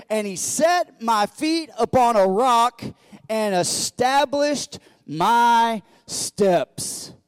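loud, high, slowing to the end; preached scripture. Real, not acted. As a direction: proclaim the verse, dragging the last words. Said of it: "Verse two says this".

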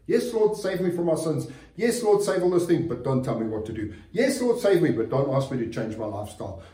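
mock the believer who wants a Savior but not a Lord; mocking half-hearted believer. Preacher mocks believers who won't change, lightly voiced. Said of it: "many people want a Savior".

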